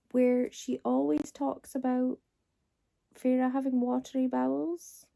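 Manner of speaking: hushed conspiratorial whisper. Real, not acted. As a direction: lean in and whisper it. Gossiping about book quirk.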